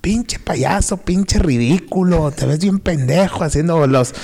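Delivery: mock angry mother, high and sharp; furious mom. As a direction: bark it like an enraged mother calling her kid over. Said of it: "se me quedó viendo bien feo".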